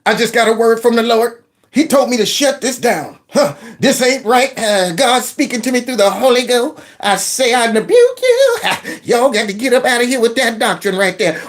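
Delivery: mock fiery preacher rebuke; hammed-up preacher calling out the sin; preachy pastor. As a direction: pastor storming up to rebuke the reading. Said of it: "she's about to run up there and say".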